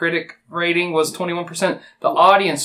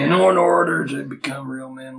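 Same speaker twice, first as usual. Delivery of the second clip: real man voice; 3 dB quieter than usual. Pretend. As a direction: drag it out like a tough guy. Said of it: "we must talk like this".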